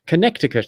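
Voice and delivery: Connecticut said kuh-NET-ih-kut; careful pronunciation. Shown as a demonstration. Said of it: "that's how you pronounce that".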